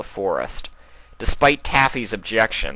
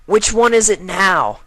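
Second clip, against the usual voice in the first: higher colt voice, louder, sulky; bored colt; 12 semitones higher, 7 dB louder than usual. Acted. Colt asking Twilight which story, higher and bored. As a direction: ask with a sigh.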